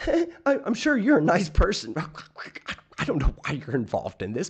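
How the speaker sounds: sweet start rolling into a sue-everyone rant; mocking Delete Laws. Mocking how he spoke to the judge, sweet then ranting. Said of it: "that's the way he talked".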